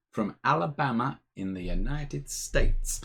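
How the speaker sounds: put-on American accent; playful attempt at an American accent. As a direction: say the place with an American twang. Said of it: "that was my American accent".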